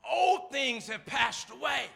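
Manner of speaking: high, slow shouted scripture; preached declaration. Real, not acted. Preacher proclaiming scripture to the church, in a slow high shout. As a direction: lift the line and call it out slowly.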